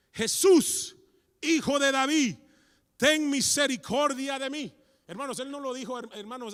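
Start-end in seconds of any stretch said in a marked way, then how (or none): 0.1-4.7 high desperate cry for mercy; shouting. Acted. Blind Bartimeo shouting to Jesus, loud high cry. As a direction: cry out Jesús with all your voice. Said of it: "comenzó a gritar".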